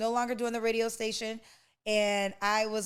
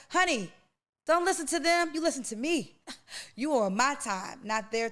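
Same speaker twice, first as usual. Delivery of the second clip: emphatic, voicing God; 4 semitones higher, faster than usual. God telling a woman to ignore the world, pitched up emphatic. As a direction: voice God protecting his child, insistent.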